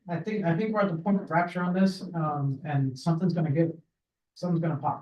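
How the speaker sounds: softly, short of breath. Real, not acted. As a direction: talk while still out of breath. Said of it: "I'm out of breath".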